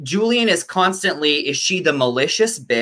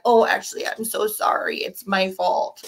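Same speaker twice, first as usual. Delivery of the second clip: mock apology; 6 semitones higher, 4 dB quieter than usual. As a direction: imitate a sweetly contrite mean girl backing down. Voicing a character's backpedalling apology.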